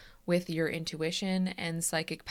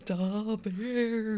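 put-on Chicago accent; 2 semitones higher than usual. Echoing the Chicago voice.

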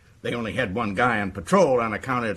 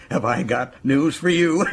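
gloating amusement. Acted. Gloating over news, starts laughing.

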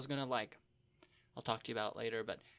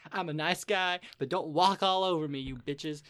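loud, raised-pitch playful outburst; mock indignant rant; 3 semitones higher, 10 dB louder than usual. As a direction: lay down the law, half-joking. Mock rant about party costs.

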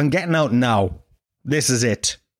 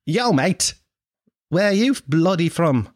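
higher, drawn-out mock Australian accent; 5 semitones higher, slower than usual. Australian girl asking where he is from, hammed-up Australian accent. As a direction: ham up a nosy Aussie. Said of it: "This is my Australian accent".

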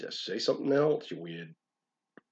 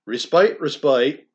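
pleading cry; 4 semitones higher, 7 dB louder than usual. Acted. Pleading lines of poem.

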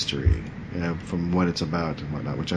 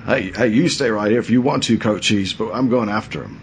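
lightly voiced, slightly nuts action hero; a hint of frantic, once-Australian movie cop; early Mel Gibson; 3 semitones higher than usual. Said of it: "early Mel Gibson kind of thing".

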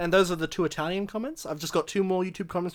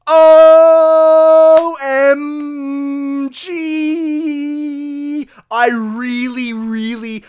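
loud, high, drawn-out mock gush; gushing comment reading; 9 semitones higher, 12 dB louder, much slower than usual. Reading a YouTube fan comment aloud, gushing wildly. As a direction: stretch every word in over-the-top fan excitement.

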